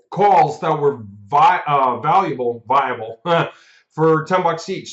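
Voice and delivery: hiccuping between words; talking through the hiccups. Real, not acted. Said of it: "got the hiccups".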